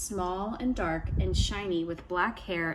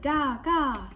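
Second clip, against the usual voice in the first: trickster tale voices; 6 semitones higher, 3 dB louder than usual. A narrator's reading. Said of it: "Ravenchild said".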